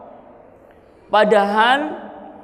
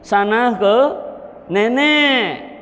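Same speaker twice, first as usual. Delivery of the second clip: gentle calling; 3 semitones higher, slower than usual. Shown as a demonstration. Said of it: "Kalau ada cucu".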